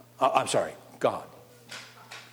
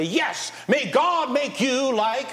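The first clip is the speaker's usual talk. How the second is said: slow, raised formal blessing; solemn blessing; 6 semitones higher, slower than usual. Shown as a demonstration. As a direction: pronounce it like a toast. Demo blessing at a wedding.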